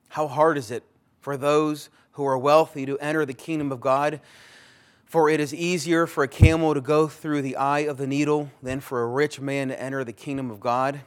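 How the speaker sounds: loud, ringing scripture quote; full-voiced scripture reading; preaching loud. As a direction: proclaim Jesus' words to the hall. Jesus quoted, preached loudly.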